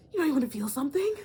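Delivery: a fast, loud teasing nudge. Shown as a demonstration. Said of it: "repeated louder".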